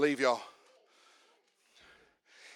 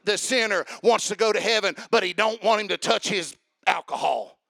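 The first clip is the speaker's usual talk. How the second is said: rising preacher cadence, getting louder; preaching; 4 dB louder than usual. Shown as a demonstration. Preacher giving an example sermon to the congregation, building fervor. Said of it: "I can preach that on you".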